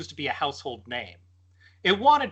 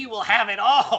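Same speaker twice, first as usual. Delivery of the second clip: insect voice, higher; 6 semitones higher, 3 dB louder than usual. Reading a story aloud, voicing the insect's line: bug voice. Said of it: "make a bug voice".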